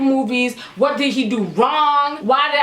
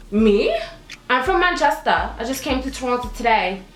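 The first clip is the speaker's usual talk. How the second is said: fake English accent. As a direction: play innocent in a phony English accent. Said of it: "I put on my fakest English accent".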